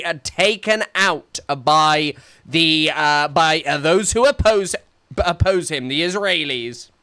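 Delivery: excited rant. Real, not acted. Excited rant about Trump.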